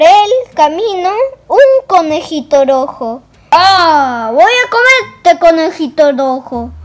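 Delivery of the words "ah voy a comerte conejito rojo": loud wolf growling at the red rabbit; wolf threatening red rabbit, loudly; wolf's threat. Acted. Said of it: "dijo el lobito".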